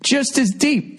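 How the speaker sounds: high, strained words through real laughter; barely getting it out for laughing; laughing while talking. Real, not acted. Retelling friend's mistake, talking through laughter. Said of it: "we're fucking crying, laughing".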